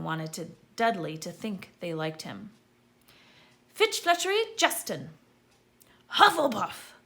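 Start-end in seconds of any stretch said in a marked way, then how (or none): 3.7-5.1 loud, high roll-call announcement; calling out names. A narrator's reading. Professor calling the next pupil loudly to the stool. 6.1-6.9 loud, higher house announcement; hat shouting. A narrator's reading. Sorting Hat shouting the house to the hall.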